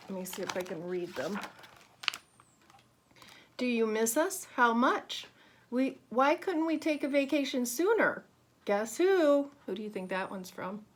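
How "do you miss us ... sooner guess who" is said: lively postcard voice. Acted. Reading question mark postcard aloud.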